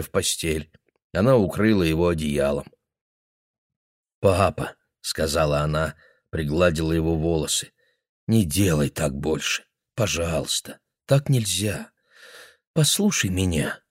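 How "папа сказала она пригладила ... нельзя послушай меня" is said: tender daughter. Acted. Daughter tucking father in.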